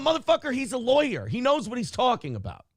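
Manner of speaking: high, exasperated cry of disbelief; exasperated outburst. Retold or imitated. Watching the lawyer clip, high exasperated outburst. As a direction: blurt it out in disbelief. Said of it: "And I'm going".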